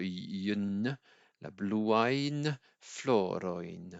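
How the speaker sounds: bluain floroin drawn out, yen endings clearly sounded; slow right down on la bluain floroin; teacher isolating the difficult yen sound; very slow demo. Shown as a demonstration. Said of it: "un son qui est un petit peu difficile".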